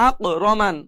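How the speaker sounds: আক রমান with the K as a thick, bouncing Q; mistaken heavy qof. Shown as a demonstration. Teacher imitates a common mistake, bounced heavy Q in আক. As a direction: jolt the end of আক like a heavy qof. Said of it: "ভুল করে উচ্চারণ করে".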